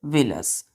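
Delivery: विलस said as vi-lus; pronouncing villus. Shown as a demonstration. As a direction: read विलस aloud as vi-lus for the class. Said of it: "singular में लिखिएगा".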